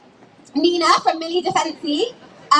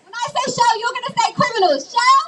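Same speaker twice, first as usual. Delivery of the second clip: rally call; 5 semitones higher than usual. Real, not acted. Leader chant call.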